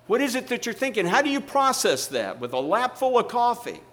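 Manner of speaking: high-pitched, baffled questioning; incredulous. Retold or imitated. Seatmate asking Ed about laughing over coffee, incredulous. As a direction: demand an answer in comic disbelief.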